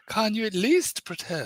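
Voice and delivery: high, slow posh English read; posh accent. Shown as a demonstration. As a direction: demonstrate a plummy posh accent. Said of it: "Read this with a posh accent".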